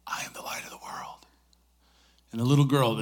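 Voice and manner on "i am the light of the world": soft unvoiced whisper. Mother in the front row prompting her daughter in a whisper. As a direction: whisper the line to prompt the child. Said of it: "she begins to whisper".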